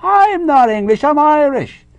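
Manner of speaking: high, loud, drawn-out protest; indignant boy's retort. Retold or imitated. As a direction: mimic a kid shouting back, slow and high. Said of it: "And I'd say".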